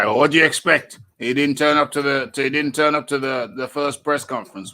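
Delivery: mocking quote. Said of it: "some people say".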